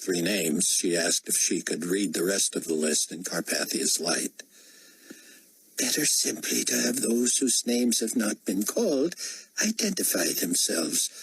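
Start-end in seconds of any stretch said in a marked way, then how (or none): 5.8-11.1 lightly voiced, slightly higher ruler; a hint of a commanding figure; potentate. Potentate instructing the roll call, lightly voiced.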